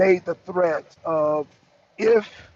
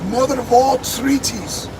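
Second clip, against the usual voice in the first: slow, higher put-on Irish accent; George Galloway in Irish accent; 4 semitones higher than usual. Vlogger adapting Galloway's catchphrase, mock Irish accent. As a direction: stretch the slogan out in an imitated Irish accent. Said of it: "my Irish accent".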